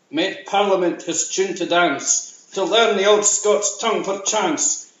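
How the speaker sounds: rhythmic Scottish verse recital; poem recital. Acted. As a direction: declaim the couplets crisply in Scots.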